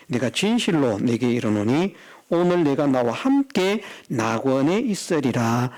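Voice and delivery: measured scripture quote, slowing at the end; solemn promise. Acted. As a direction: voice a solemn pronouncement, drawing out the close. Preacher voices Jesus' promise from scripture.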